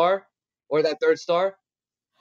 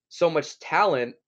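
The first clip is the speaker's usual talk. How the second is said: burping; slower than usual. Real, not acted. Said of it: "Excuse me, I'm burping".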